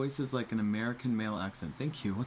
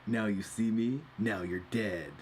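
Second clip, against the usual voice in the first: Duke Nukem impression; slower than usual. Shown as a demonstration. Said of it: "Something like that".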